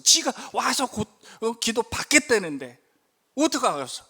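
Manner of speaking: inner grumbling. Retold or imitated. Pastor talking himself down before praying, resigned grumble. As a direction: shrug it off, whatever happens. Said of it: "속으로 이렇게 얘기했어요".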